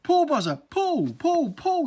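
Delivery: rising, loud repeated urging; urgent shouts. Acted. Earwig urging the bee to pull him out, loud and rising.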